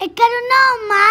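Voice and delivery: high, hopeful call through the house; little girl calling for her mother, eager and high. Acted. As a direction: call out for mom, thinking she's back. Child searching for mother.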